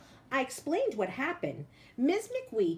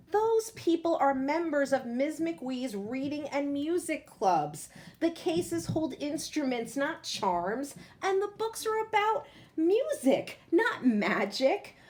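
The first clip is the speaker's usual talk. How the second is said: higher, firmly corrective mum, slowing on the end; patient mother; 6 semitones higher than usual. Acted. Mother correcting her son about the visitors, patiently firm. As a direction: set him straight, stressing not magic. Narrator voices his mother.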